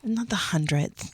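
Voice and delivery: soft unvoiced whisper. Real, not acted. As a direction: whisper it under your breath. Whispered aside correcting him.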